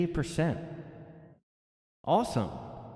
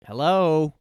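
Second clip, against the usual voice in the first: higher, louder mock yell of an impatient stranger; retold yell; 6 semitones higher, 10 dB louder than usual. Older New Yorker yelling at riders who won't answer, loud. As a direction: bark it out at the silent riders. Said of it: "yelled at people that weren't answering".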